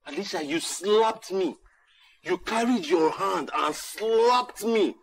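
wounded accusation building; hurt outrage. Acted. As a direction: hammer home slapped in disbelief. Repeats the accusation, rising.

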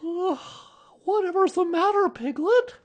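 put-on high, loud child's voice, slow concerned question; drawn-out, high-pitched boyish query; Christopher Robin. A narrator's reading. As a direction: ask as a puzzled little boy just getting up. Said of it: "said Christopher Robin, who was just getting up".

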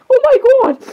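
high, loud pretend dismay; hammed-up "oh my god"; mock shock. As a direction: cry out in play-acted alarm. Acted shock in character play.

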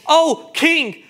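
hammed-up pleading to a king; lightly acted begging for forgiveness; mock grand apology. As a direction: play a flustered, stammering excuse-maker. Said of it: "did not make any grand apology".

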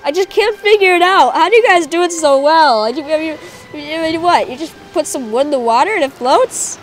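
high, loud clueless pleading; mock bafflement. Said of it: "I'm like".

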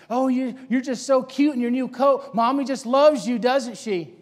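mild mock-sweet teasing. Peers teasing Samuel about his new coat, mildly mocking. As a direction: tease a mama's boy lightly. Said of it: "Making fun of his relationship".

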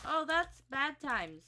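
slow, loud alarmed groan; drawn-out dismayed oh. Real, not acted. Sudden danger in game.

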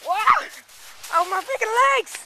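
loud excited high shouts; sledding downhill. Real, not acted. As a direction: yell while riding down. Sledding downhill, legs burning.

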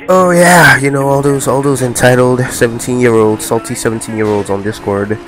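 mocking critics.

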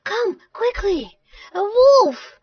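high, urgent call; high cry to summon help; alarmed shout. Acted. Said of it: "he shouted".

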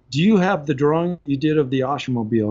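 imitated French boss asking a question; French-accented English, mimicked. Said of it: "he's French and he's got this accent".

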